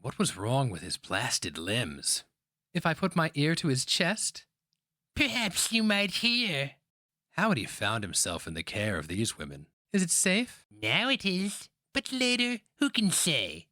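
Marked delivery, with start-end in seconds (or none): 2.7-13.7 put-on young woman. A narrator's reading. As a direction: ask it in hushed wonder. Girl and old woman.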